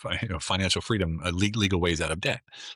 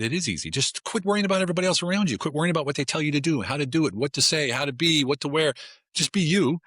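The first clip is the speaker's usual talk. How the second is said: emphatic retold advice; 8 semitones higher than usual. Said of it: "I said".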